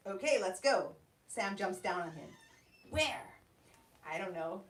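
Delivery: measured storyteller's reading voice; calm, even story narration. A narrator's reading. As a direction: read the opening like an author at a book launch. Author reads her story aloud.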